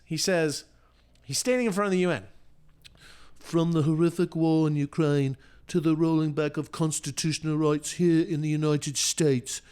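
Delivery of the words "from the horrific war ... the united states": mocking Prince Harry in a posh British accent. Host parodies Prince Harry's UN speech, mock British accent. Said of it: "Bonus points on the accent".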